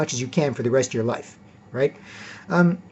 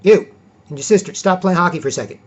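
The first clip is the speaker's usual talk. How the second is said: louder call across the room, quick; calling out to kids; 3 semitones higher, 4 dB louder than usual. Retold or imitated. Dad calling his kids away from hockey. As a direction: call the kids over firmly.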